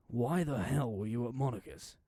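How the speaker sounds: loud, slow angry demand; acted outraged demand. A narrator's reading. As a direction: raise your voice and drag out the question. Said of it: "how he raised his voice".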